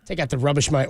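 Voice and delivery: light mock-Aussie accent; a hint of Aussie twang; Australian accent. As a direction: imitate an Australian's everyday phrase. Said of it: "or they'll just say".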